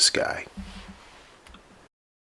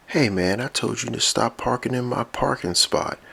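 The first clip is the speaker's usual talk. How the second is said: annoyed neighbour robot voice; 7 semitones higher than usual. Acted. Other robot confronts Ultimate Expanse.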